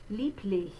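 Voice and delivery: "Lieblich" with b as p and a light forward ch; German ich-laut. Shown as a demonstration. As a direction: say "Lieblich" as liep-lich, ch far forward. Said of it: "We're gonna say that B like a P".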